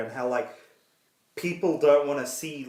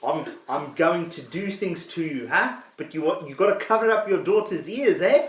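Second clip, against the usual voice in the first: put-on South African accent; 3 semitones higher than usual. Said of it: "butchered South African accent".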